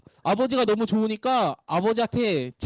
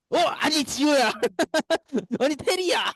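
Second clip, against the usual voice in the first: amused disbelief; 8 semitones higher, slower than usual. Real, not acted. Amused surprise at children's answer.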